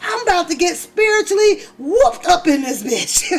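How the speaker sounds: high, loud mock panic in the pews; mock terrified. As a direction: play scared of getting whooped by the spirit. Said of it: "I be like".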